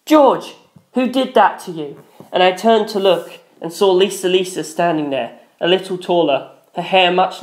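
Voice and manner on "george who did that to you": a sharp worried yell across the room. A narrator's reading. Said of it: "the familiar voice from the hospital room door yelled".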